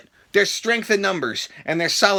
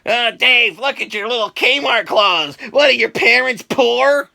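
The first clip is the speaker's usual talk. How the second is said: higher, slower mocking bully voice; imitating bully; 4 semitones higher, 4 dB louder, slower than usual. Imitating the bullies who mocked his Kmart clothes, sneering. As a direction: sneer like the kids at school. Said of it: "'cause that's what they did".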